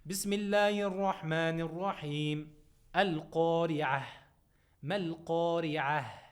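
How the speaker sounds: chanted tajweed recitation, held and measured; Quran recitation. Shown as a demonstration. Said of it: "You listen carefully and you repeat after me".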